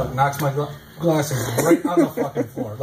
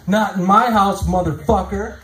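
louder trash-talking block; girlfriend trash talk; 2 semitones higher, 3 dB louder than usual. Retold or imitated. Comic girlfriend taunting after blocking his layup, loud. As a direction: taunt him like a star player. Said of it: "She goes".

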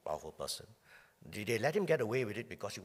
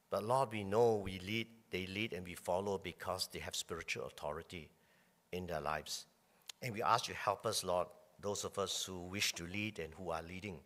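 calm, earnest prayer voice; pastoral prayer; 3 semitones lower than usual. Acted. Pastor praying for church leaders, calm earnest prayer. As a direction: pray steadily for the church.

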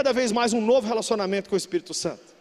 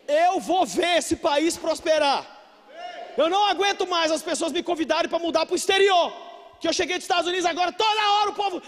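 loud, rising declaration to the crowd; full-force preaching; 6 semitones higher, 6 dB louder than usual. Real, not acted. Preacher declaring hope for the country, fired-up and forceful. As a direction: preach it with raised, insistent voice.

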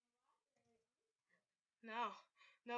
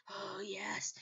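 soft, lower hushed aside; whisper; 9 semitones lower, 10 dB quieter than usual. Real, not acted. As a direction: whisper it conspiratorially. Aside after dad joke.

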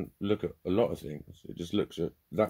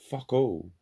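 blunt outburst; 6 semitones higher, 5 dB louder than usual. Real, not acted. Blunt punchline about depression.

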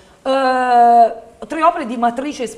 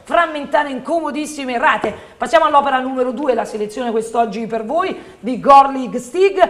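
infomercial. Acted.

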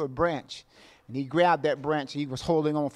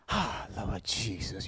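much lower and softer, slowed; soft prayerful murmur; hushed aside; 8 semitones lower, 10 dB quieter, slower than usual. Real, not acted. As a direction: breathe it out like a quiet prayer. Pastor sighs in prayerful aside.

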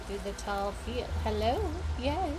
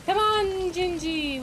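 high, bright call to the kitten; calling the cat; 7 semitones higher, 5 dB louder than usual. Acted. Gamer calling her cat Gingy, high and coaxing. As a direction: coax the cat along, pitched up.

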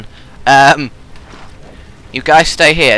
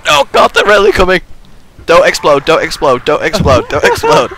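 breathless fright; 6 semitones higher, 3 dB louder than usual. Real, not acted. Zombies coming, pleading.

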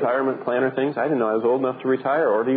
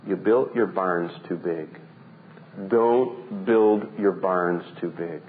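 gentle rebuke; 5 semitones lower, slower than usual. Retold or imitated. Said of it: "He's saying".

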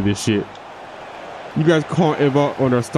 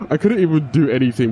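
said through a laugh; chuckling repeat; laughing disbelief; 3 semitones higher than usual. Real, not acted. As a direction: laugh at his own helplessness.

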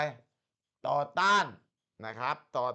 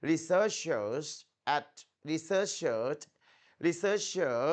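model reading; much slower than usual. Shown as a demonstration. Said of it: "ครูอ่านหนึ่งรอบ".

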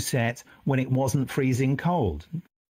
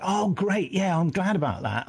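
retold pleased reply; 5 semitones higher than usual. Friend's pleased reply on phone.

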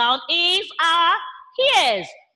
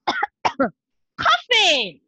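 cough; 2 semitones higher than usual. Shown as a demonstration. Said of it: "I'm coughing".

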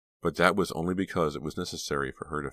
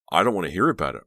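angry; 3 semitones higher, 7 dB louder, faster than usual. A narrator's reading. Rawson silences the boys after their fight, angry. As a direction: cut off the excuses angrily. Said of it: "Rawson said angrily".

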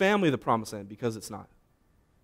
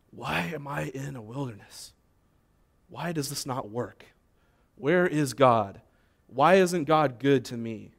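hushed self-pitying grumble; grumbling. Acted. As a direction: mutter the complaints to yourself. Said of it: "Or you can grumble".

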